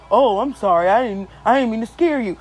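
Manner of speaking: lightly voiced mannish stranger, apologizing; dude-like woman. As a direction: imitate a woman who sounds like a dude. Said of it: "this is what she sounded like".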